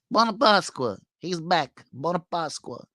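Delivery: high, thin playful voice; playful high-voiced greeting; put-on character voice. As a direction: pitch it up as a returning character.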